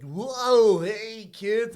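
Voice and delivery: high, drawn-out mascot greeting; hammed-up costumed bird hailing children; Red Robin. Mascot coming round to the kids' table, high put-on greeting. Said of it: "he's like".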